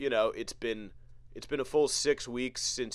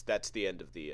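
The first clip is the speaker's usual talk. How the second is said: ordinary talk, nothing marked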